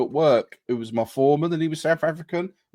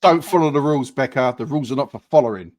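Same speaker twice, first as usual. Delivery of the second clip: mock dramatic command; 5 dB louder than usual. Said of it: "what if I said to you".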